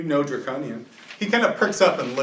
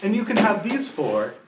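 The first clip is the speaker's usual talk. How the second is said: booming, higher dragon voice, loud and proud; 7 semitones higher, 7 dB louder than usual. Acted. GM voicing the half-dragon to the defenders, booming dragon voice. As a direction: gloat like a generous dragon lord. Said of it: "Do your best dragon".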